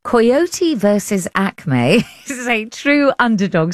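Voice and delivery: coyote in an English accent; British pronunciation of coyote. Real, not acted. Presenter carrying on true to herself, English accent. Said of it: "carry on doing it in my English accent".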